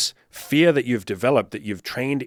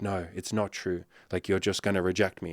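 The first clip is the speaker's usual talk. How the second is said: low, softly muttered self-defeat; mock insecure guy, quiet and resigned; dejected refusal; 4 semitones lower, 6 dB quieter than usual. Insecure bald man turning down an interested woman, dejected.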